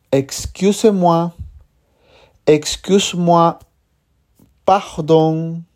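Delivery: clear, careful French pronunciation of each word; teacher modelling French words for learners; French model words. Shown as a demonstration. Teacher presents vocabulary, careful French. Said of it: "usted aprenderá las siguientes palabras".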